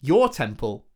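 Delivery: slow, loud disbelief rising high; dawning shock as it clicks; surprised. Acted. Realising the demon is Messiah.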